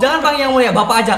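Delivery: high, loud laughing mock judge. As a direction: chuckle through a pompous order.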